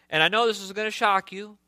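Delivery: mock-warning with light sarcasm; sarcastic. Real, not acted. Pastor teasing the congregation about his children, lightly sarcastic. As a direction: lightly tease them with a supposed shock. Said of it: "I'm being sarcastic".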